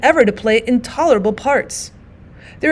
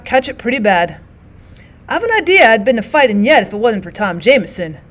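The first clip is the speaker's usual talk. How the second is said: tattered soldier voice; 3 dB louder than usual. Acted. Tattered soldier's long tale.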